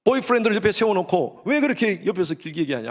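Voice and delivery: put-on high-pitched, jealous boyfriend's rant; retold angry scolding. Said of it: "제가 막 화를 냈어요".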